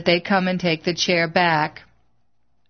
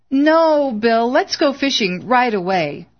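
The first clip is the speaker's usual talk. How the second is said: lightly voiced wife, high urgent plea on No; begging him to come fishing now; pleading; 5 semitones higher than usual. A narrator's reading. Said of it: "Her words sounded almost pleading".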